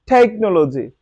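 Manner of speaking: টেকনোলজি with a breathy aspirated opening t; American aspirated t. Shown as a demonstration. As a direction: puff the t in টেকনোলজি. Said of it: "like this word".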